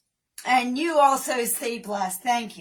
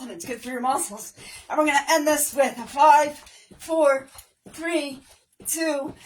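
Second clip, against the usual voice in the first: upbeat workout coach calling counts; aerobics instructor; 3 semitones higher, 3 dB louder than usual. Acted. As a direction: pump up the class. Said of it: "leading workout with counts".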